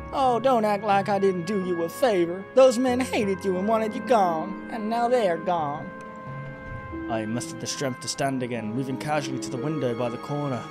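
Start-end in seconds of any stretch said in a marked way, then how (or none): 0.1-5.9 high, theatrical falsetto woman; seductive villainess. Acted. Succubus telling Jack they are both monsters, high villainess voice. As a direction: lecture him in a high, hammed-up female voice.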